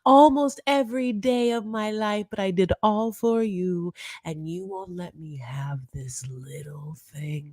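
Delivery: high, slow, whiny complaining wife; mock aggrieved wife. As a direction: drag out every grievance in a high whine. S1 voicing Yara's tirade.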